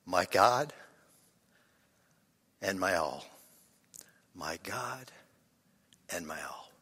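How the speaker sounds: low, sinking into a whisper on the repeat; whispered prayer. Shown as a demonstration. Preacher modelling a Francis Assisi prayer, sinking to whisper. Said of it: "Whisper that".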